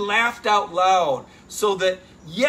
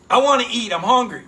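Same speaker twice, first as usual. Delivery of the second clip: loud, higher mock yell of hunger; Kirby Smart screaming; 4 semitones higher, 7 dB louder than usual. Coach yelling at players in the video, loud mock shout. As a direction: shout it like a coach firing up his team. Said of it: "he's screaming at those guys".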